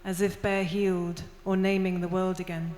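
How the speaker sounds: steady, measured recital of a poem; poem reading. Acted. Poet reading her Welsh and English poem to the audience, recital voice.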